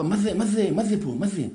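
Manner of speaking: slightly high, rapid repeated questions; lightly voiced amazed son; wondering village boy. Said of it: "אז הבן שואל את האבא". (ילד כפרי משתאה, בחיקוי קל)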